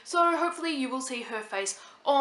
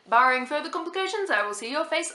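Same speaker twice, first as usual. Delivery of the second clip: trailer voiceover; 5 semitones higher than usual. Retold or imitated. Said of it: "hearing that guy's voice in my head going".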